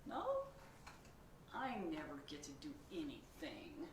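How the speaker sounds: high excited pigeon scheming; whiny pigeon. Acted. Pigeon proposes a game to the reader, high and eager. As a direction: pitch the game like a sly kid.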